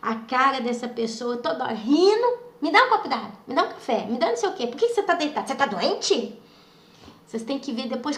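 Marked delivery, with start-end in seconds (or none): 2.6-6.4 mimicked nagging demands. Narrator mimicking the person who kept bothering her, nagging. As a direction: imitate someone pestering with one request after another.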